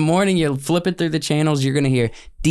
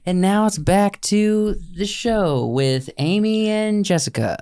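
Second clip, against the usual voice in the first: radio host voice; 7 semitones higher, slower than usual. Retold or imitated. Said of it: "everyone's like".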